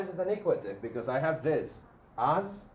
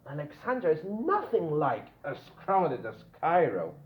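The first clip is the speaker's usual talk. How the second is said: "nothing like" lifted and stressed; emphatic NOTHING LIKE. Shown as a demonstration. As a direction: lean on "nothing like" as a strong denial. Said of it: "emphasizing this".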